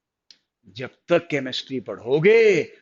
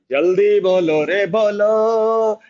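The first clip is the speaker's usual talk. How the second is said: drawn-out, higher call to hurry; urging call; 4 semitones higher, 3 dB louder than usual. Real, not acted. Teacher prodding online students for answers, urging call. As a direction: call out to the class, stretching the words.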